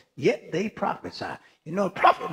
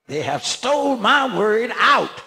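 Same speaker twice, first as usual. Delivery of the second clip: preaching shout; 2 semitones higher, 3 dB louder than usual. Real, not acted. Preaching climax, shout heard.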